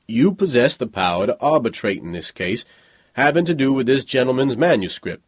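lightly voiced, respectful bodyguard; deferential bodyguard. Bodyguard confirming to the boy Anarch, deferential. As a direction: confirm it respectfully to your young master.

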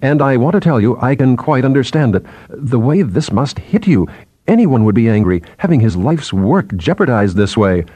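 anxious, placating subordinate; lightly voiced nervous chatterer; nervous chattering. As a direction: chatter on apologetically with hardly a break. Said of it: "Binet chattering again".

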